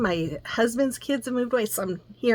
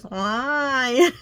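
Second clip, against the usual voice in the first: put-on whiny little boy; 4 semitones higher than usual. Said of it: "his little whiny voice".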